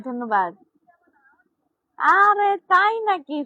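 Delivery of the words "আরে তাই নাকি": high, loud delighted surprise; excited surprise. Real, not acted. A viewer compliments her and she reacts with loud, happy surprise.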